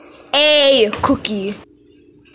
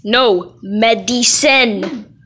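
slow demonstration; slower than usual. Shown as a demonstration. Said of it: "It's pronounced medicine".

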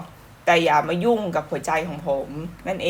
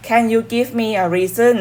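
slow lyric read; 3 semitones higher, much slower than usual. Shown as a demonstration. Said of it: "เรามาดูเนื้อเพลง".

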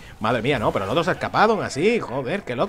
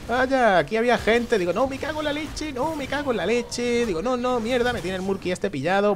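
much higher, alarmed cursing; real shock at the ambush; startled panic; 9 semitones higher than usual. Real, not acted. Gamer ambushed by hidden enemies, high panicked cursing.

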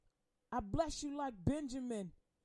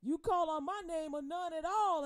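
mock abusive husband; 4 semitones higher, 4 dB louder than usual. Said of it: "tell her".

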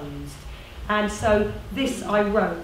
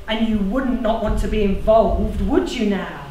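jolly them into joining in; bold, cajoling organiser; persuasive community organiser; 5 dB louder than usual. Acted.

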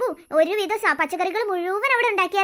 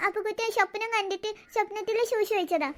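put-on soft toddler confession; tearful little boy; 5 dB quieter than usual. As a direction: confess quietly in baby talk. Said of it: "കരച്ചിൽ നേരത്ത്". (കൊച്ചുകുട്ടിയുടെ പതുങ്ങിയ ശബ്ദം)

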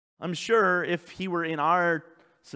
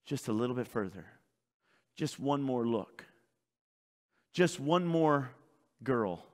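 tempting voice of Satan; 3 semitones lower, slower than usual. Retold or imitated. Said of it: "what he'll do is he'll keep telling you".

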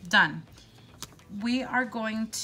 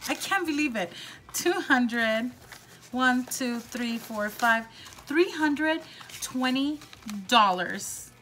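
thrilled counting; 3 semitones higher, 4 dB louder, slower than usual. Real, not acted. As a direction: count it out giddy with joy. Recounting savings, thrilled.

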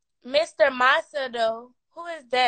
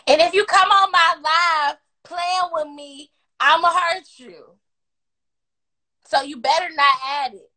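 mock threat; 3 semitones higher, 5 dB louder than usual. Real, not acted.

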